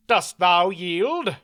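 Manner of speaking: slow, stern question; slow knightly demand. A narrator's reading. Knight asks the fallen baron to yield, stern. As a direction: ask for his surrender deliberately.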